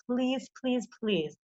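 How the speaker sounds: soft, drawn-out begging; pleading softly. Real, not acted. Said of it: "I'm begging you".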